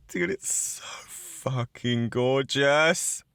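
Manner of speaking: slow whispered gush; awed whisper. Real, not acted. Admiring the phone's looks, a slow awed whisper. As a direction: breathe it out, slowly, in awe.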